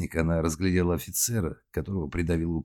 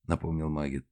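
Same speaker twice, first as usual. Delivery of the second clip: ordinary delivery, nothing marked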